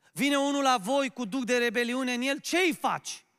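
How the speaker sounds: forceful preaching. Real, not acted. Preacher asking the flock about a rebel, forceful preaching. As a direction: put the question to them forcefully.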